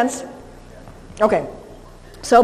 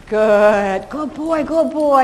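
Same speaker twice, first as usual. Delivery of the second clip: praising a dog; 2 semitones higher, 3 dB louder, much slower than usual. Real, not acted.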